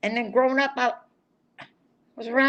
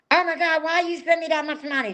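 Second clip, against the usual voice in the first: mother's surprise; 7 semitones higher than usual. Retold or imitated. Mother voiced in phone story.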